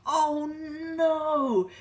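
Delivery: high, loud wail of dismay; Mister Bear despairing. Acted. Mister Bear kept awake by snoring, high loud despair. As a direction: moan it out, fed up. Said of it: "said Mister Bear".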